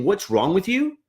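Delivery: a student leader scolding a peer, mock exasperated; mock exasperation. Shown as a demonstration. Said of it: "instead of saying".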